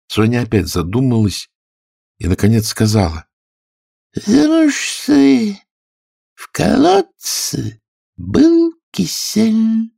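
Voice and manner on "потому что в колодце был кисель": high, squeaky storyteller mouse; a tiny creature spinning a tale; sleepy Dormouse voice. Acted. Dormouse telling Alice her tale, squeaky and high.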